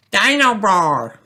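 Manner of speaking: put-on a small boy thrilled by his toy; excitedly. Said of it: "says George excitedly".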